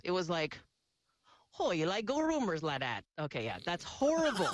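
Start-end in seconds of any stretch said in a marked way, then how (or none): 1.6-3.0 a lightly done, badly faked Hawaiian Pidgin; bad Pidgin attempt. Shown as a demonstration. Recreating her failed Pidgin radio ad for the club, bad Pidgin. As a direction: try the Pidgin line and miss the local sound. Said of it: "here's a sample".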